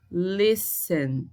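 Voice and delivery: listen drawn out, first syllable strongest; stress on first syllable. Shown as a demonstration. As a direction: lean on the start of listen. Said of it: "a sílaba mais forte foi o le". (listen com força na primeira sílaba)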